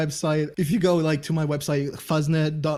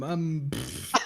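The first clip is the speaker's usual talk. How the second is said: a little puff of air, imitating a Russian's scoff; 5 dB quieter than usual. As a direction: blow out a soft dismissive pff. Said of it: "I like that sound you just made".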